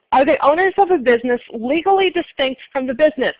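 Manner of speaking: "legally" given mild emphasis; stress on legally. Shown as a demonstration. Teacher reading a quiz question to class, stress on "legally". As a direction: lean a little on the word "legally". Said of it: "emphasize the word legally".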